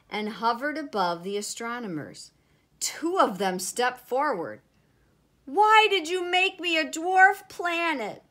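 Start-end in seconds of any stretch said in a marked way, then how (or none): 5.4-8.2 thundering, high indignant demand; Pluto. A narrator's reading. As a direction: confront them loudly, pitch held high. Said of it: "Pluto thundered".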